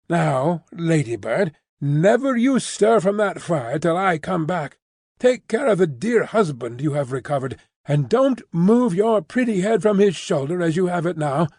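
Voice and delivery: a hint of a bustling English maid; Miss Pross voice.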